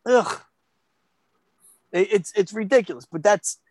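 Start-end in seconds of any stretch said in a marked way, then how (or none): 0.1-0.4 high, whiny mock disgust; squeamish kid. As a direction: imitate a kid grossed out by mess. Imitating squeamish kids covered in egg.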